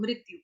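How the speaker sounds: मृत्यु as mrityu; the easier Hindi मृत्यु, mrit-yu; Hindi pronunciation. Shown as a demonstration. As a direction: use an i after mr in मृत्यु. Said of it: "Hindi वाला शब्द बोल दो".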